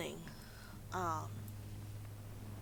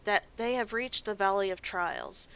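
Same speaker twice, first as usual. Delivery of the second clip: earnest quest giver; 2 semitones higher than usual. Acted. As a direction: read it like an ominous mission briefing. Reads quest NPC text aloud.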